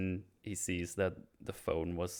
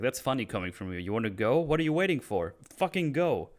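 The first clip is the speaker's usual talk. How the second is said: acted anger building higher and louder; angry dare; 4 semitones higher, 5 dB louder than usual. Oz dares Vic to leave, increasingly angry. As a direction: goad him, rising to a heated order. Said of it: "I like how angry Oz is here".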